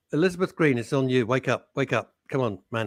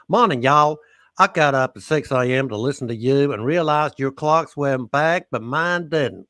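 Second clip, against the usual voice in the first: put-on Texan accent; 4 dB louder than usual. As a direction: lightly play the Southern accent. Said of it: "you do that voice".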